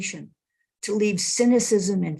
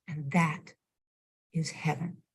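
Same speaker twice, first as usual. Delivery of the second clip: softer, hushed and settled; quiet reveal; 3 semitones lower, 8 dB quieter than usual. Acted. Monk, still looking him in the eye, answers softly. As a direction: let it land gently. Monk's quiet final reply.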